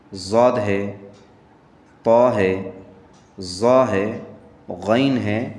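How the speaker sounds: heavy full sound on را صاد ضاد طا ظا غین قاف; heavy letters. Shown as a demonstration. Teacher lists the heavy letters, full-voiced. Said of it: "جو موٹی آواز میں پڑھے جاتے ہیں".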